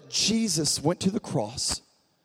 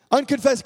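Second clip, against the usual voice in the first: "Unconfessed" said higher and louder, hit hard; stressed word; 5 semitones higher, 4 dB louder than usual. Shown as a demonstration. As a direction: land "Unconfessed" like a correction. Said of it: "you notice I didn't say unconfessed".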